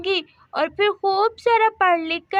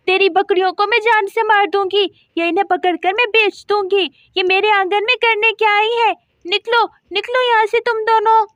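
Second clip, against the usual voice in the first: angry threats; 2 semitones higher than usual. Acted. Neighbour threatening Radha's goats, heated scolding. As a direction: chase them off with a hot temper.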